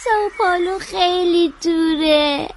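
weepy, upset protest; tearful complaint. Acted. Child telling sister the city is far, tearful. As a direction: say it through tears. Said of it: "گریه نکن".

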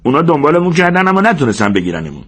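high-pitched, fed-up correction; disgusted. A narrator's reading. George corrects Lennie about fleeing Weed, disgusted. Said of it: "جورج با بیزاری گفت".

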